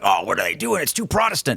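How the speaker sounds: lightly voiced sniffy critic, rising at the end; a hint of a scoffing purist; mock disapproving traditionalist. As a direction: poke fun at a scandalised churchgoer. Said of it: "I'm not one of those guys like".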